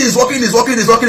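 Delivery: retold excited shout. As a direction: retell an excited shout without full volume. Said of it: "So I was shouting".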